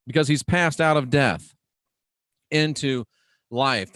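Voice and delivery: emphatic, measured verse reading; preacher declaiming a verse; scripture reading. Acted. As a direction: proclaim it phrase by phrase, with pauses. Reads paraphrased verse from notes.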